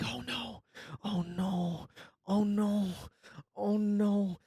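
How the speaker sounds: rising panic, repeated oh no; the dread of a bottle filling too fast; panicked oh no. Retold or imitated. To himself in the car, panicked mock dread.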